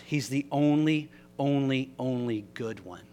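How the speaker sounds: "only" repeated and leaned on; stress on only. Shown as a demonstration. Preacher insisting Jesus is the only good one, stressing only. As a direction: hammer "only" each time. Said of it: "repeats only for emphasis".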